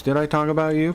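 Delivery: feigned cluelessness, mockingly retold; playing dumb. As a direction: imitate someone pretending not to know. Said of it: "so he's gonna try to pretend like".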